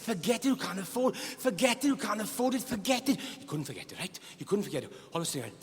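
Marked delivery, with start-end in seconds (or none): 0.0-3.2 dismissive retold refusal. Telling Billy to forget it.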